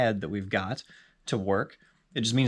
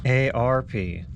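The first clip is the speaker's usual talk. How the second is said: each letter spelled slowly and clearly; slow careful spelling; 2 semitones higher, much slower than usual. Real, not acted. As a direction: enunciate for the voice assistant. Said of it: "No, no, no, I'm not that old".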